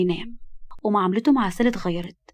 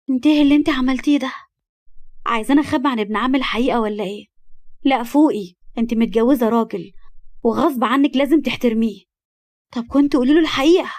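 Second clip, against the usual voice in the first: angry accusation; 3 semitones higher, 4 dB louder than usual. Acted. Cousin berates the wife in front of her husband, angrily.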